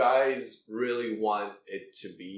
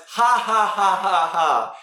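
mock laugh; 8 semitones higher, 12 dB louder, slower than usual. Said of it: "And he just replies".

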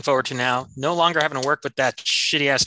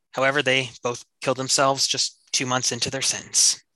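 measured closing narration; story narration. Acted. Narrates the series finale.

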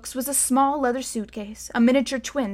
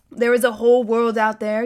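calm guardian; 6 dB louder than usual. A narrator's reading. Silas answers Bod's words.

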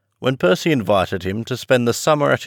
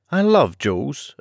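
enthusiastic; 6 semitones higher than usual. Acted. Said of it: "agreed Percy enthusiastically".

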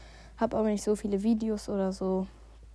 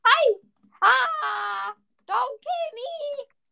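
panicked plea; 11 semitones higher, 5 dB louder, much slower than usual. Real, not acted. Attacked in game, pleading.

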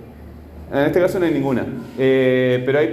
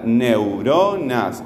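"Neuronas" very slowly, stretching RO; teacher sounding out "Neuronas" by its strong syllable; drawn-out stressed syllable; 3 semitones lower, much slower than usual. Shown as a demonstration. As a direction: hold the RO in "Neuronas", then fall. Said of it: "¿Cuál es la fuerte?".

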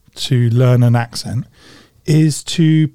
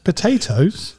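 mock Irish; 5 semitones higher, slower than usual. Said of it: "He's not Irish".

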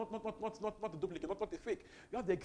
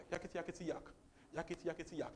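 mimicking demon chatter; 4 dB quieter, faster than usual. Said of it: "the demon kept going".

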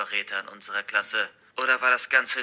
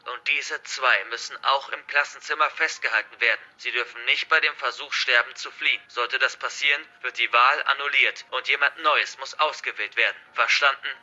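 lightly voiced hostage-taker, projected; forceful, threatening address to captives; menacing hacker villain; 3 semitones higher, 6 dB louder than usual. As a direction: declare it like a villain in control. Narrator voices the hacker's rules.

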